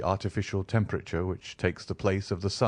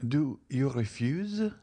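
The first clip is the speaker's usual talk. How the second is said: slow, trembling and a little higher; tremulous voice; 6 semitones higher, slower than usual. A narrator's reading. Countess to the count who stepped back, tremulous. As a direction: let the question waver, hurt. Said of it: "in a tremulous voice".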